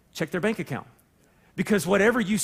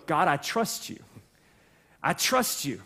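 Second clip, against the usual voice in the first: sincere prayer; 4 semitones lower, 4 dB quieter than usual. Retold or imitated. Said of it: "so that you go".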